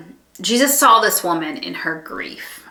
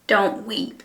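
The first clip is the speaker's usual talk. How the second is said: slower, gently voiced compassion; compassionate; 3 semitones higher than usual. Jesus speaking to a weeping mother, compassionate. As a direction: say it to comfort the mourner. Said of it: "out of his compassion".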